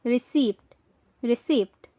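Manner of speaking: "receipt" with the p sounded, ri-SEEPT; wrong pronunciation. Shown as a demonstration. Teacher quizzing learners with the wrong form, "receipt" as ri-SEEPT. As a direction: pronounce the p in "receipt". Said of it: "रिसीप्ट बोलते हैं तो ये गलत".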